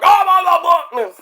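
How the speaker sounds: high, lightly voiced "oh my"; mock the co-host's stunned reaction; imitating Joe. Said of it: "I think Joe's gonna be like".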